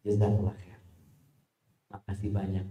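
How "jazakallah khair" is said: low, soft thank-you; calm polite reply. Retold or imitated. Preacher's answer to the insult, lower and gentle. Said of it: "Ketika dia mengatakan".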